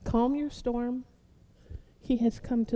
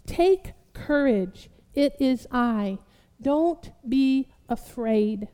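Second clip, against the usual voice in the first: slow calm Jesus; much slower than usual. Acted. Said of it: "immediately said to them".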